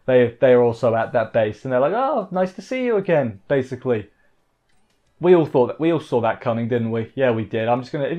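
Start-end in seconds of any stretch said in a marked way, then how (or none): 1.9-3.4 higher-pitched mock pleasant surprise; lightly acted "oh!" of recognition, voice lifting; surprised greeting. Characters greet an old acquaintance at the base, mock surprise.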